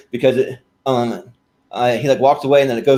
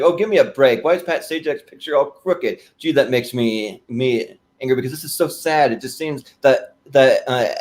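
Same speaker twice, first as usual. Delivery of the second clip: Ed Grimley impression. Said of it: "he's like".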